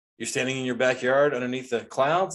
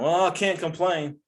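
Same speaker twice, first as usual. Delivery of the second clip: mock quote; 5 semitones higher than usual. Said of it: "they always say".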